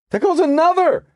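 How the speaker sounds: high, loud shout down the tunnel; distant shout. A narrator's reading. A bystander on the platform shouts at her, loud and high. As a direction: call out sharply from far behind. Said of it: "she heard someone shout".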